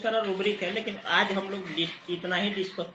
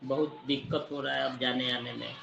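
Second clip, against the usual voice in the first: mildly giving up; 5 semitones lower than usual. Acted. Teacher voices a litigant dropping his case, mildly resigned. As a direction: let it trail down like someone quitting a long fight. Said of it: "poor तो जब होता, जब कि छोड़ देता".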